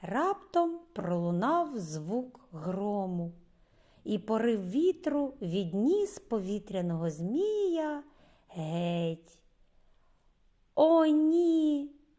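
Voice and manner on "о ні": high, loud despairing cry with ні drawn out. Reading a story aloud, Reggie sees the wind carry off his kite: crying out in despair. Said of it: "у розпачі закричав Регі".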